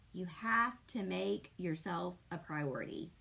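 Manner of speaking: low, firm and deliberate; tough love. Real, not acted. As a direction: lay it down calmly like a stern coach. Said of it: "I'm about to put my tough love hat on".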